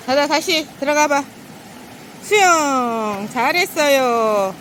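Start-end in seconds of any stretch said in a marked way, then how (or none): 2.2-4.5 slow sing-song praise; drawn-out praise for the dog; squeaky praising a dog. Real, not acted. Owner praising dog after swim.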